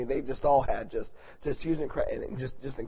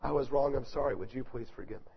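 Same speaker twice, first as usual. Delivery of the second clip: humble apology, sinking softer; 4 dB quieter than usual. Acted. Spouse making restitution for harsh words, quiet humble apology. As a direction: ask forgiveness quietly, voice falling away.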